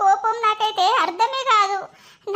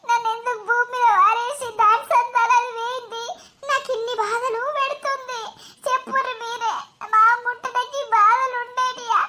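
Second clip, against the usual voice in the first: crying; 2 semitones higher than usual. Acted. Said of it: "అయ్యో, ఏడవకురా".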